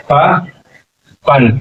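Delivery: पापन stretched very slowly, falling; wrong form drawn out. Shown as a demonstration. Teacher showing pupils the wrong reading, slow. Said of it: "पापन नहीं".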